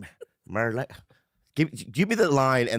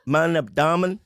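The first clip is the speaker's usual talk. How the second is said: very slow, careful German attempt; a learner slowly copying the German request; mock German; 4 semitones higher, much slower than usual. Shown as a demonstration. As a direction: sound out "Darf ich dich berühren" word by word. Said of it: "Now try it with an Asian accent".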